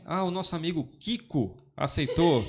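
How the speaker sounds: imitating the pastor slowly, through a laugh; laughing pastor quote. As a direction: announce the convert's name while chuckling. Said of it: "ele diz assim".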